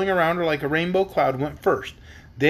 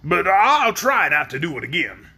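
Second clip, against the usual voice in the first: lightly voiced sheepish promise; understated shamefaced character voice; ashamed Shaggy Man; 3 dB louder than usual. A narrator's reading. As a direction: promise with a touch of embarrassment. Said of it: "as if ashamed of his bray".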